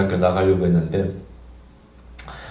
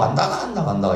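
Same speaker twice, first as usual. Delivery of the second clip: mock demon voice; 4 semitones higher than usual. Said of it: "이상한 소리를 하는 거예요".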